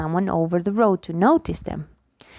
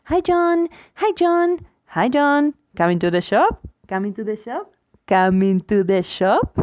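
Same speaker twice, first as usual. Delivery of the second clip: mock repetitive greeting. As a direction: say it three times like baby talk to a friend. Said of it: "We don't meet a friend in the street and say".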